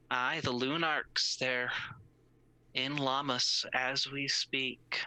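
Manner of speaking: boatman voice. Acted. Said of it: "He says".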